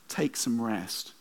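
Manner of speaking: soft and slow, a quiet call to rest; God gently urging a tired listener, soft and slow; slow gentle urging. Acted. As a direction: coax gently like a voice in the heart. God tugging at your heart.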